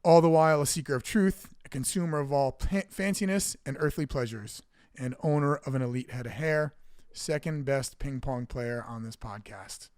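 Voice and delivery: punched opening, then measured list of titles; mock-grand announcer intro. Host introduces Johnny Glasses, mock-grand announcer style. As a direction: build up the co-host like a ring announcer.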